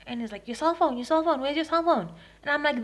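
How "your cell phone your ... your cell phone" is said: high, loud repeated demand; retold urgent demand. Intruder demanding her phone, high urgent demand. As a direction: imitate a robber insisting, raised and loud.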